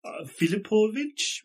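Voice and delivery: high, slow broken-English greeting; halting foreign villager. Acted. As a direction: feel out each word like a villager with little English. Plays local man with little English.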